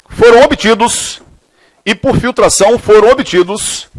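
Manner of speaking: slow, measured dictation with long pauses; classroom dictation. Real, not acted. Teacher dictating a chemistry question to students, slow dictation. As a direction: dictate phrase by phrase, stretching the words.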